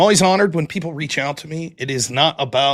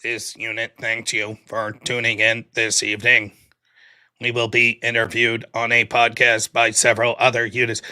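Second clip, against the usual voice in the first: lightly lowered, even robot voice; 2 semitones lower than usual. Pretend. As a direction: speak like a polite machine unit. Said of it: "Hopefully I don't sound like a robot".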